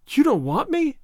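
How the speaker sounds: high, pleading cry of dismay; a hurt child crying out in disbelief. A narrator's reading. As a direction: heartbroken little girl begging. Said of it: "she cried".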